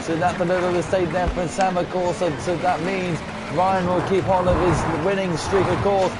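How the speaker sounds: steady play-by-play caller voice; race commentary. Acted. Streamer narrating the rally for his friends, live commentary.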